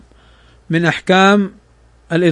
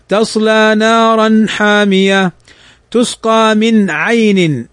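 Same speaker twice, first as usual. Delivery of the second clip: Quran recitation; much slower than usual. Shown as a demonstration.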